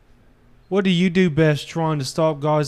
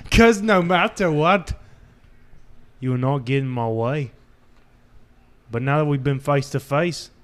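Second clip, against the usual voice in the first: a hammed-up British tough-guy accent, lightly done; shitty put-on British accent. Man telling his partner old advice in a bad British accent. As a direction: fake a rough British accent for the bit. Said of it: "The last shitty accent I can pull out".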